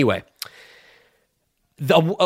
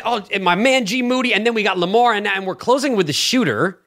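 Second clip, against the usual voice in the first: mock-host roll call of guests; mocking inflection; 5 semitones higher than usual. Shooter objecting to host's intro, mocking imitation of his inflection. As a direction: imitate the host, pitched up and pointed. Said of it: "Why are you saying it".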